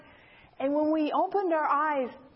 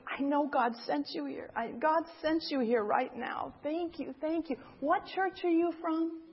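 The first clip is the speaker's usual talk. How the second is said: softer, touched retold thanks; melting gratitude; 2 semitones higher, 3 dB quieter than usual. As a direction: voice a woman whose guard has melted. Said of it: "And she just melted".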